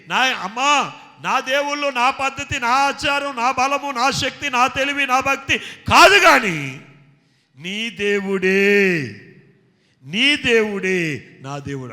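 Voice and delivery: Naomi's vow. Retold or imitated. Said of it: "ఆమెతో Naomi అంటుంది".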